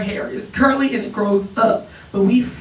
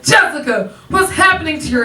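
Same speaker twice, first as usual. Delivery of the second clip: put-on panicked boyfriend; 4 semitones higher, 4 dB louder than usual. Boyfriend on the water ride shouting in panic. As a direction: voice the shocked boyfriend.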